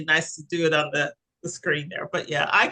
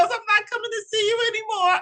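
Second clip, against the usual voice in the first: lightly mimicked brother, pitched higher; mock complaint in a raised pitch; put-on higher voice for a fed-up brother's line; imitating brother; faster than usual. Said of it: "He goes".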